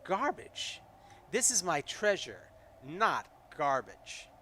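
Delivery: high, indignant creature voice, slowing on not garbage; creature shouting back. Acted. Kobold shouting back at the player, indignant. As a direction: squeak back in offended outrage. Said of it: "shouts back".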